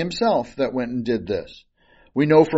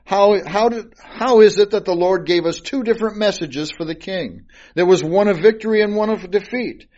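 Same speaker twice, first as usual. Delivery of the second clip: mocking tone; 4 semitones higher than usual. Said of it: "And in a mocking tone".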